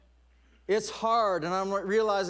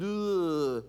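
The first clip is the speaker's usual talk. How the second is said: mock groan of a reluctant reader; drawn-out groan. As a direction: let out a long "ugh". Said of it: "I'm reading it and going".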